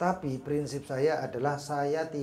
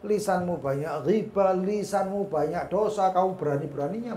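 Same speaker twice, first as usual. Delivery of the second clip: stretched, raised-voice reproach; devil's reproach; 6 semitones higher, 6 dB louder than usual. Retold or imitated. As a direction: draw out each accusation loudly. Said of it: "Nanti kadang-kadang kita dibilang".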